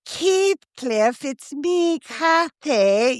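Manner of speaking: imitating a high Aussie actress voice; mock Aussie Kathy line; Australian accent. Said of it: "you know that Kiwi accent".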